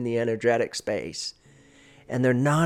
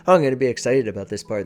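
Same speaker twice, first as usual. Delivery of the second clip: fast, louder burst of mock enthusiasm; excited demo; 6 dB louder, much faster than usual. Shown as a demonstration. Coach showing a speaker's jump into excitement, fast and loud. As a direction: rush it like you're thrilled about this part. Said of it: "I might notice I sped up naturally there".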